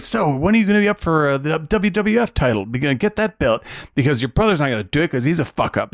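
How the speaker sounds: pushy dad. Retold or imitated. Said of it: "the dad's like".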